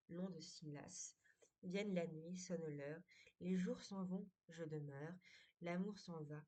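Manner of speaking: measured poem reading, line endings falling away; poem recitation. Acted. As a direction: recite in verse lines, letting each refrain sink at its close. Lit le poème à voix haute. (lecture de poème, fins de vers qui retombent)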